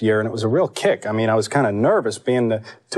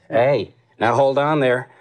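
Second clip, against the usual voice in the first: Bush; slower than usual. Retold or imitated. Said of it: "I'll do a whole segment as Bush".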